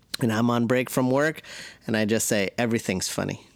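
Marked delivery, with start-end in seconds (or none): 2.6-3.4 play-acted low, dry, flat, level deadpan. Describing what he says while everyone's on break: deadpan, straight face. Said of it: "But I say it like that, like with a straight face".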